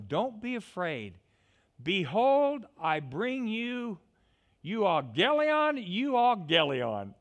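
高く大きく、ゆっくり盛り上がる天使の声; 羊飼いに喜びを叫ぶように; excited angel. Acted. Angel quoted, ramping up.

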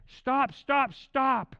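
loud, high repeated command; forceful acted shout. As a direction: halt them firmly, each word separate. Acts the Spirit halting accusations.

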